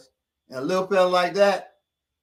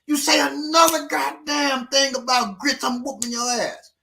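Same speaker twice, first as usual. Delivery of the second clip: 1 threatening; 11 semitones higher than usual. Retold or imitated.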